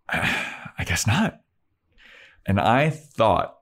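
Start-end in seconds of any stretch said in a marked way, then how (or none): 0.1-1.4 slow, sighing reluctant give-in; mock defeated mumble; resigned Buffy. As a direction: drag it out grudgingly after a sigh. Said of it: "Buffy's like".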